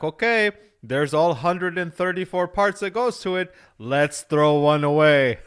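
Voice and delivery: bad mock Swedish accent, slowing and laughing at the end; hammed-up Swedish engineer, barely holding the accent; horrible Swedish accent. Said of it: "That was a horrible Swedish accent".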